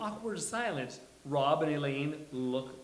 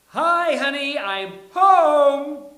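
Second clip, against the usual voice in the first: much higher and louder, sing-song greeting; cheery entrance call; 11 semitones higher, 17 dB louder, slower than usual. Acted. Jack announcing his arrival to Will, loud and high. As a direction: call out like you just swept in the door. Jack enters with luggage, all smiles.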